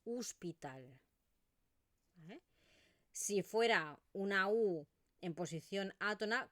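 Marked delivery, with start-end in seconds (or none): 0.0-1.0 "hospital" said as "uspital", the o closed to u. Shown as a demonstration. Teacher showing the Eastern Catalan "hospital". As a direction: open "hospital" with a u sound. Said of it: "lo que yo pronuncio es una U".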